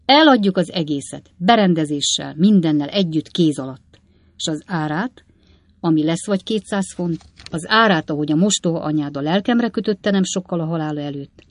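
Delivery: lightly voiced father, loud and emphatic; a hint of an old man explaining; businesslike old father. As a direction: set out the plan, then grope for a word. Old Weller explains his plan.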